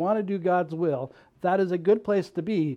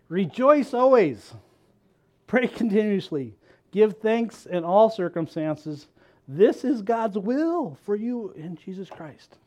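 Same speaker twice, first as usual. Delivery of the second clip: slow scripture reading; 3 semitones higher, 3 dB louder, slower than usual. Shown as a demonstration. Preacher reading scripture to the congregation, slow and solemn. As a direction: read each verse slowly, with weight. Preacher reads verse aloud.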